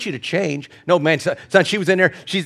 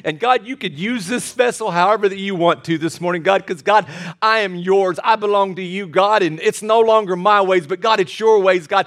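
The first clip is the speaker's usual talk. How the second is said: earnest running prayer aloud; pleading, devoted address to God; fervent prayer; 3 semitones higher than usual. Acted. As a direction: pour out a surrendered prayer to God. Prays aloud within the sermon.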